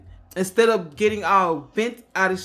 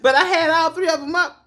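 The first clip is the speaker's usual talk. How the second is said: laughing; 9 semitones higher, 4 dB louder than usual. Real, not acted. Laughing at past websites.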